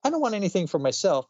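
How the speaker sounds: put-on high, pleading child voice breaking into laughs; hammed-up dying child, cracking up; pitiful blind kid. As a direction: sickly kid asks Santa for a gift for mom. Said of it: "Little blind kid ... says".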